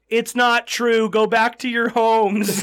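loud, high, slowed-down proclamation; mock public announcement. Movie authorities sending people home, mock loud announcement. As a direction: call it out slowly to a whole crowd.

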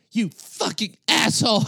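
hammed-up high pitched curse from the angry dog walker; angry man insult. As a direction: spit the curse out as the furious man. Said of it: "he goes".

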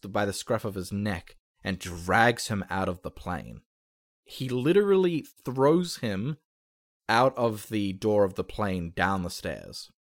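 dramatic action narration; game master's scene setting. Acted. Game master describes the tackle to the players, dramatic narration. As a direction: narrate the attack with punchy emphasis.

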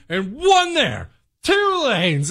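high-pitched mock yell at the driver; dad reenacting yelling at minivan driver; reenacted angry outburst. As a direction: lecture her, exasperated. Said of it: "I am steamed".

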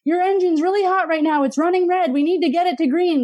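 high-pitched mock coaching voice; imitated labeling parent. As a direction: imitate a parent talking a child down. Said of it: "or telling them".

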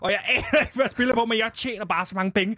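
high-pitched, laughing through the words. Real, not acted. Man telling interviewer of his easy winnings, laughing. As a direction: tell it through giggles.

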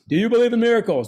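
excited, high-pitched sportscaster call; Al Michaels. Retold or imitated. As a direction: imitate a commentator crying out at a historic win. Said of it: "Al Michaels".

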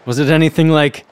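dramatic storybook outcry; crying out. A narrator's reading. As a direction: cry it as a menacing reveal. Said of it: "cried the soba man".

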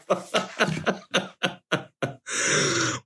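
airy rolling laugh; real laughter; long breathy laughter. Real, not acted. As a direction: laugh it out fully.

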